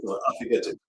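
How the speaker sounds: unvoiced whispered aside. Real, not acted. Fan confessing he must buy the jersey, whispered. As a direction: breathe it like a secret.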